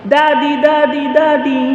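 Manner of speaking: lightly voiced child calling his dad; child shouting. Boy on the tracks calling to his father, lightly voiced child shout. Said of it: "sumigaw yung bata".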